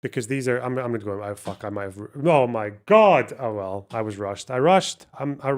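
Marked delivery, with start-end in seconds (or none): 2.3-3.3 slow, louder groaning realisation; slow dismay. Real, not acted. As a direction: drag it out in dismay. Realises his rushed mistake.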